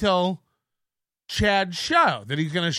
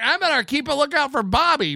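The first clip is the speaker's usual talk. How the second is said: mock wary rival; 6 semitones higher than usual. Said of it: "just like".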